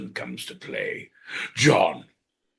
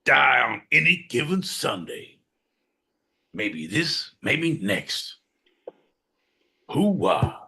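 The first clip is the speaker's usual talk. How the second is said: Al Pacino; 5 semitones higher, slower than usual. Retold or imitated. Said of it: "Al Pacino".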